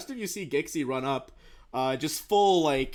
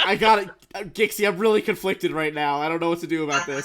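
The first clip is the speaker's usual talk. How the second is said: conflicted; 3 semitones higher, 6 dB louder, faster than usual. Acted. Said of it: "It's like".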